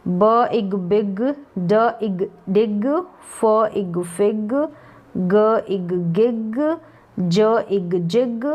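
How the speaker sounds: slow, stretched sounding-out; drawn-out phonics. Shown as a demonstration. Teacher blending letter sounds for learners, drawn out. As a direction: sound out each part slowly, then blend. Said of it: "खींच के मैंने थोड़े long बता दिए हैं".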